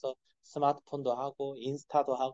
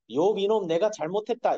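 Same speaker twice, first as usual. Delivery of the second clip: mock God's apology; 6 semitones higher, 6 dB louder than usual. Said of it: "이렇게 안 해요".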